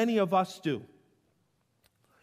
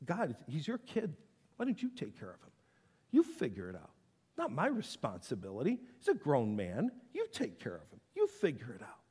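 dismissive deflection; 4 semitones lower, 5 dB quieter than usual. Retold or imitated. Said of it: "he puts it".

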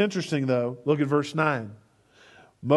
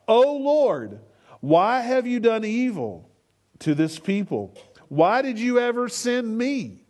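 a raised, pleading cry to the Lord; crying out to God; 4 semitones higher than usual. Retold or imitated. Moses cries out to God in a raised plea. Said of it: "he cries out".

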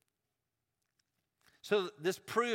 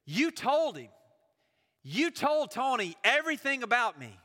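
higher, louder, upset man's pleading voice; retold distressed man; 5 semitones higher, 4 dB louder than usual. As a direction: replay the weeping man's outburst, a bit raised. Distressed man confronts narrator after service.

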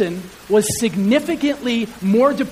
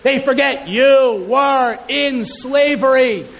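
usual speaking voice

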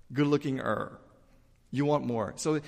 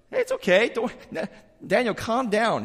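higher, louder, carefree brush-off; king casually calming a rattled Daniel; breezy reassurance; 8 semitones higher, 4 dB louder than usual. Retold or imitated. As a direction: wave the worry away like an easy-going king.

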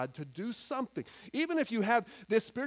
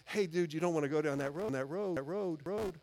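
softer, faster, fading on "road"; firm but loving; 3 semitones lower, 5 dB quieter than usual. Pretend. Pastor to a struggling friend, firm yet loving and soft. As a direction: put an arm round him and steer him gently. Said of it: "very firmly but very lovingly say".

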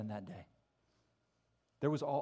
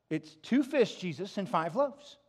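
mildly exasperated disciples, louder; insistent disciples; 4 semitones higher, 6 dB louder than usual. Acted. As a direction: disciples stating the obvious. Disciples voiced answering Jesus.

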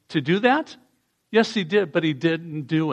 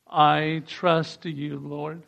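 "I trust you, Lord" drawn out slowly, "I" long; slow unison prayer line; very slow repeat; much slower than usual. Shown as a demonstration. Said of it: "Can you say that with me".

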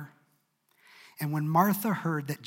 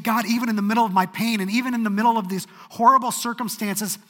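fervent declaration; 7 semitones higher, 8 dB louder than usual. Acted. A believer declaring trust in God through pain, fervent and loud. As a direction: proclaim it with full conviction. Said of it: "They said".

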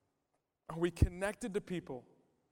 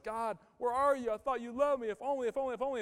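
lament; 5 semitones higher, faster than usual. Acted. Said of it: "he's like".

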